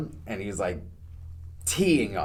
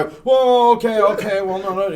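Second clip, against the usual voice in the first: high, loud flustered backing off; suddenly retreat in a fluster; backpedaling driver; 9 semitones higher, 8 dB louder than usual. Retold or imitated. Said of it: "He switched his whole tune".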